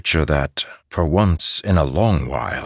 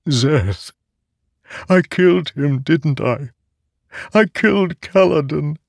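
put-on much higher, childlike sword voice; a remorseful living sword; talking sword; 11 semitones higher than usual. Sword character voice.

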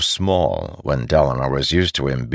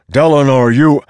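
booming rumbling call, high and loud; rumbling louder; 10 semitones higher, 10 dB louder than usual. A narrator's reading. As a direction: call his name like thunder. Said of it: "his voice rumbling louder now".

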